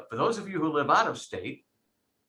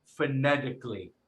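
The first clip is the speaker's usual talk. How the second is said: Rhode Island take on "phonetically"; Rhode Island accent. Shown as a demonstration. Teacher demonstrating the accent to the class, Rhode Island accent. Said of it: "the Rhode Island accent".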